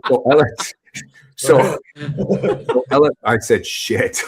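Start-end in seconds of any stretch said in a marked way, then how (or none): 3.7-4.2 whispered curse. Retold or imitated. Reacting to his own invented company.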